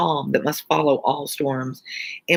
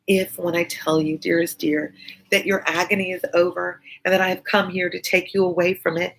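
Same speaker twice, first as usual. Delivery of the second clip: Lucie pleading; 2 semitones higher than usual. Acted. Lucie's speech continues.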